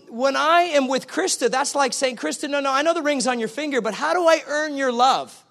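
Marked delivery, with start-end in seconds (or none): 2.2-5.4 higher, eager pleading to his wife; pleading husband. Retold or imitated. Husband begging wife to name a task, pleading. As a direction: beg her to tell you how to earn it.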